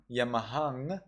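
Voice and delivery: Yamahang ending in a clear ng; Sri Lankan reading. Shown as a demonstration. Teacher showing the Sri Lankan reading, Yamahang ending on ng. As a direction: close Yamahang on a nasal ng. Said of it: "instead of Yamaha".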